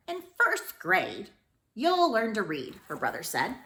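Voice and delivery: put-on expressive read-aloud for kids; storybook reading. A narrator's reading. Teacher reads picture book to her students, expressively. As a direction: read it warmly to the class.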